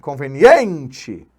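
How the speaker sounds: Conveniente with a punched, lengthened EN; stronger stressed syllable. Shown as a demonstration. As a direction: hit the EN in Conveniente harder. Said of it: "mais forte".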